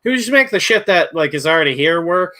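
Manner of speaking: high, loud mock exasperation; exasperated outburst. Friend venting to cohost about StreamYard, exasperated high yell. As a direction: throw up your hands at the app. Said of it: "I'm like".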